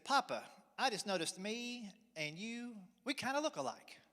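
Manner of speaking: put-on high, slow little kid; little boy voice. Son to dad at the mirror, small boy voice. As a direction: voice a small boy noticing something.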